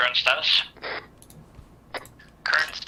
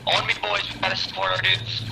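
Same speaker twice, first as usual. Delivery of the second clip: rallying call; 8 semitones higher than usual. Acted. Rallying squad in battle.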